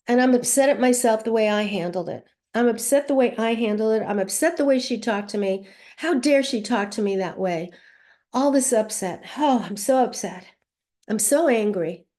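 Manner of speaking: understated venting of upset and anger; mild ranting. Shown as a demonstration. Upset mother ranting after a phone fight, mildly angry venting. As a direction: rant a little, demonstrating being upset. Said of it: "So I'm just ranting".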